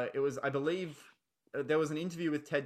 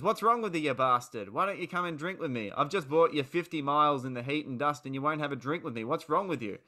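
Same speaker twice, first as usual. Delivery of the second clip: mock angry van driver. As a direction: bellow it like an offended drinking mate. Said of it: "the van driver says".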